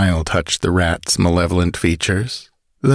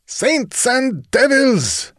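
slow, high, raised oath; raging; much slower than usual. Acted. Chief hearing of Kane, slow raging oath. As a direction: roar out a slow curse. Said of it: "raged the wolf".

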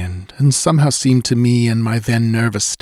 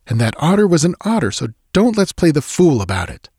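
high, raised and hurried protest; cried out; 6 semitones higher than usual. Acted. Narrator cries out at his friend, raised and hurried. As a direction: talk him down, pushing the voice up and fast. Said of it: "I cried".

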